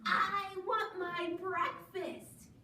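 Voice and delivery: high, drawn-out chick voice; high sing-song demand; little yellow chick. Acted. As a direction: plead slowly like a baby chick. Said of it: "said the little chick yellow".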